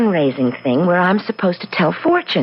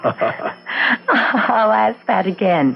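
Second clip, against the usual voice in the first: laughing; much slower than usual. Real, not acted. Laughing at the bald answer.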